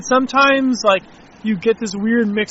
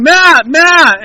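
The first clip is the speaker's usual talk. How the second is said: higher, louder calling out; retold yell; 8 semitones higher, 8 dB louder than usual. Camera owner calling to meditating friend, yelling. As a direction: yell it out to get attention. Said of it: "and I'm yelling".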